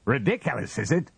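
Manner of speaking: high, furious retort; almost screaming. A narrator's reading. Husband mocks wife's word back, almost screaming. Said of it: "he almost screamed".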